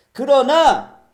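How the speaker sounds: booming, high, drawn-out pulpit shout; emphatic shout. Real, not acted. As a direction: belt out the turning word. 설교 중 반전을 크게 외침. (힘주어 크게 외치기)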